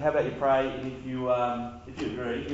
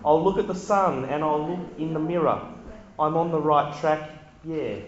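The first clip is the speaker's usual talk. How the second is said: put-on Kiwi accent. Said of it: "where the Kiwi accent just came from".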